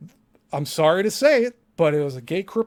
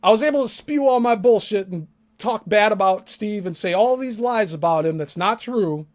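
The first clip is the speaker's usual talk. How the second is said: mocking Tom; 4 semitones higher than usual. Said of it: "He's saying".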